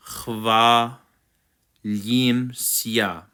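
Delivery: "chva" with a throaty kh, then lim, sia; back-of-throat ch. Shown as a demonstration. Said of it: "back of the throat".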